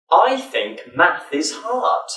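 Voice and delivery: slow, careful "I think math is hard" with clear th; slow demo. Shown as a demonstration. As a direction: say "I think math is hard" slowly, stressing each th. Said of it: "practice one sentence with the th sound".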